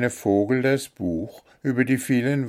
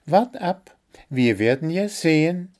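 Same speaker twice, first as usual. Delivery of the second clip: high, insistent bird voice; digging in, wait and see; stubborn little bird; 8 semitones higher, 4 dB louder than usual. A narrator's reading. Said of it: "blieb Zwitschi beharrlich".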